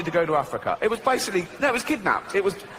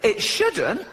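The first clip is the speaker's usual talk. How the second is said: high, hesitant goat answer; 6 semitones higher than usual. Retold or imitated. Goat answering its captors in a high hesitant squeak. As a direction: squeak out the excuse timidly as the goat. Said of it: "He went".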